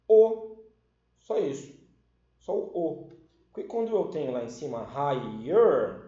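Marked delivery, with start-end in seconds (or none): 0.1-0.6 "O" punched out loud and high; teacher's loud punchline answer; emphatic answer. Shown as a demonstration. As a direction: hit the single word "O" hard. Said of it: "qual é a diferença".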